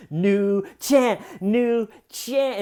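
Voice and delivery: loud, high chant starting to lose hope; slightly waning enthusiasm. Retold or imitated. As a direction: keep chanting though nobody is joining in. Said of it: "hear the enthusiasm wane a little".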